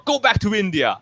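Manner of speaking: high-pitched imitation of a street heckler; mock heckler jeer. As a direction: jeer it like a passing stranger, hammed up.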